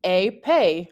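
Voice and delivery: "Épée" with both é's sounding like "ay"; French pronunciation. Shown as a demonstration. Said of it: "words that use the accent aigu".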